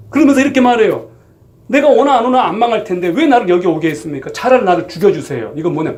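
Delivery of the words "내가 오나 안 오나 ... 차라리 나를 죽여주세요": defiant sulk. Retold or imitated. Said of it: "배째라 수준이에요".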